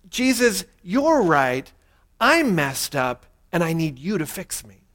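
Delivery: a gentle, sincere plea for help; humble prayer. Shown as a demonstration. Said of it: "the exact opposite".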